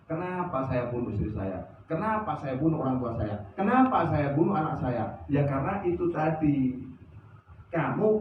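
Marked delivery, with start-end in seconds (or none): 0.0-5.1 softly voiced, remorseful cry to God; a touch of a weeping killer's regret; mock crying lament. Repentant drunk crying out to Allah, softly lamenting. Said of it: "dia nangis".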